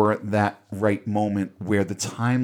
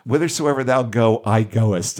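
quoting Patricia's line; 6 dB louder than usual. Retold or imitated. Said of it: "is the line that she uses".

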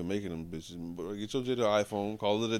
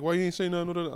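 mock exasperation; 9 semitones higher, 3 dB louder, much faster than usual.

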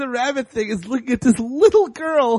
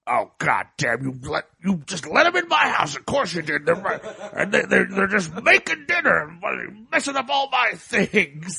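put-on much lower, grumbling old-timer; grumbling old man; 4 semitones lower than usual. Hermit grumbling at the rabbit about the kids, low and grouchy. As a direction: grumble it low like a grouch under his breath. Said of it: "he's just like".

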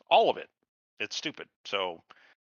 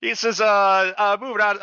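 laughing while talking; 9 semitones higher, 7 dB louder than usual. Real, not acted.

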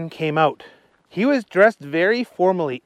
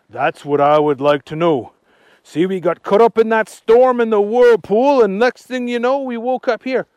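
lively puzzled Archie voice; 9 semitones higher, 8 dB louder than usual. Acted. Archie telling Agnes the town is strange, puzzled. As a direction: wonder aloud as Archie. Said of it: "said Archie".

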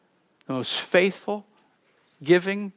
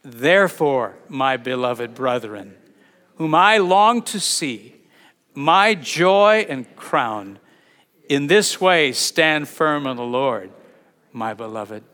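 slow, measured scripture reading, a little louder; read slowly; 5 dB louder, slower than usual. Shown as a demonstration. Pastor reading Paul's letter aloud to the church, slow and solemn. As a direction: draw each phrase out for the congregation. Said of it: "Listen, read it slowly".

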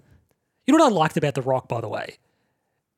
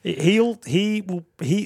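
laughing; 5 semitones higher, slower than usual. Real, not acted. Laughing after joke.

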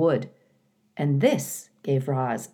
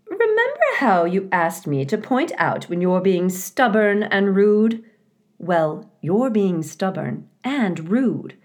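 higher, firm wife voice, slowing on the last words; Missus Beaver scolding; 4 semitones higher, 3 dB louder than usual. A narrator's reading. Missus Beaver scolds her husband for being rude. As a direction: tell him off, high and pointed.

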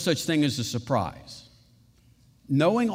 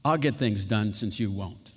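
grudging self-reliance; 7 semitones lower than usual. Retold or imitated. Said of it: "This is Jacob".

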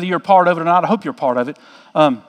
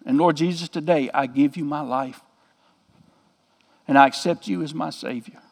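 softer, reverent prayer voice; a quiet, humble plea to God; retold prayer; 4 semitones lower, 6 dB quieter than usual. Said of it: "And she prayed".

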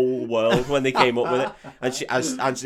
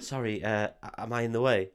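meek, hesitant polite query; very British apology; 4 dB quieter than usual. Pretend. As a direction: apologise softly as if you're the nuisance. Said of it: "I'd go full British".

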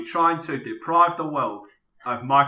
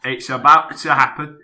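Michael Caine impression. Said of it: "Michael Caine in the scene where he ejaculates the genie".

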